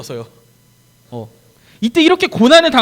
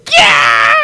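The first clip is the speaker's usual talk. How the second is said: short loud play scream; hammed-up scream for children; mock shriek; 7 semitones lower, 6 dB louder, much slower than usual. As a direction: shriek like a scared disciple. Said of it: "소리 질렀다고 얘기하고 있어요".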